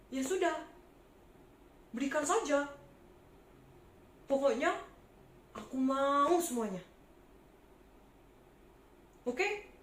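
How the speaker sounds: loud demanding tax collector; greedy tax collector shouting at a poor trader; bossy bully. Acted. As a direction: bark orders at the trader, grabbing her money.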